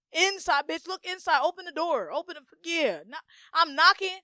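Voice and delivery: loud, high, insistent shouting; urgent demanding. Acted. Ordering herself to look inside, urgent and demanding. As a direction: demand entry like pounding on a door.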